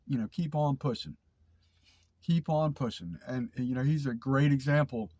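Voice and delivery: stuffy, blocked-nose voice; nasal voice. Real, not acted. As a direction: talk through a stuffed-up nose. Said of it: "I'm gonna take my nasally voice off".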